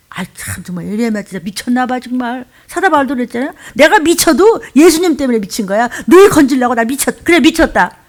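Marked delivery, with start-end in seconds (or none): 3.7-8.0 lightly voiced Paul, louder and fervent; a hint of a zealous apostle; mild impassioned Paul. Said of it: "이랬잖아요".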